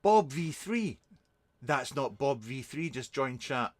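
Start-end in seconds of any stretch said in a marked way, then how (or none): 0.0-1.0 surprised recognition. Real, not acted. Spots an old friend in chat.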